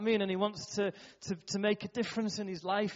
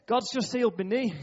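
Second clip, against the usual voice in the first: excited; 7 semitones higher, 6 dB louder than usual. Retold or imitated. Boy announces healed knee.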